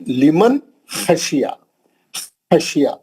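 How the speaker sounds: लिमन खशिया with a rasped throat kh; rough kh. Shown as a demonstration. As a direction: scrape the first sound of खशिया in the throat. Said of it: "खुरदुर आवाज".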